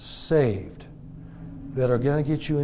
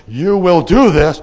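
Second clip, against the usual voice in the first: loud, slow commanding voice of God; God's command; 2 semitones higher, 12 dB louder than usual. Retold or imitated. Preacher voicing God's order to the congregation, loud and slow. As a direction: thunder it out slowly as God. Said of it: "God says".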